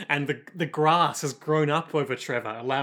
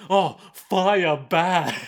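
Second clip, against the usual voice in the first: slow, louder dumb brute groan; caveman voice; 3 semitones higher, 6 dB louder, much slower than usual. Retold or imitated. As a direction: drag out fire bad like a frightened caveman. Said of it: "they're like".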